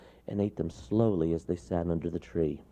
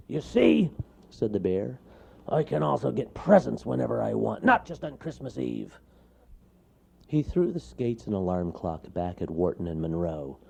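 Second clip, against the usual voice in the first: lightly voiced bear explaining; mild bear voice; lecturing bear; 5 semitones higher, 4 dB louder than usual. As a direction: bear making his point.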